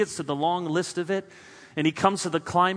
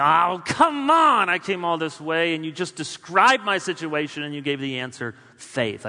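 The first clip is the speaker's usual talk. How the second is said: mock complaint; 3 dB louder than usual. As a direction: scoff like a let-down listener. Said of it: "I may say".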